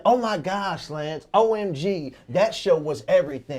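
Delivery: light gushing mom impression; a hint of a proud mother gushing; imitating mom gushing. Son mimicking his mom praising his show, mild gush. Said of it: "and she said".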